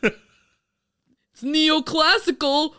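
hammed-up boastful American guide; mock eager tour guide. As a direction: push the monuments on him like a needy host.

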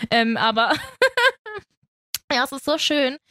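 half laugh, half cry; laughing through tears. Real, not acted. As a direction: laugh while still teary. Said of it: "laughing and crying".

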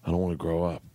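solemn, imitated child's plea; dead serious. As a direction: say it low-key, in total earnest. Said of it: "looks at me dead serious".

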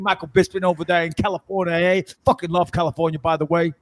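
lightly voiced parody of a co-host; Luis J Gomez. Host in co-host costume welcomes listeners, lightly mimicked podcast patter. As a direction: put on a hint of the podcast host's hype. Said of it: "Luis J Gomez".

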